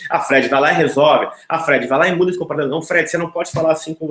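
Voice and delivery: mock commanding self-talk, quick and pushy; imitating an imperative inner voice; bossy command. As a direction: order yourself around, mildly hammed. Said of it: "de uma forma imperativa".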